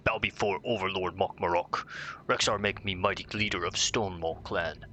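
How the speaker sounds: lightly voiced dumb ogre chief; a hint of a boastful brute ogre. Reading ogre quest text.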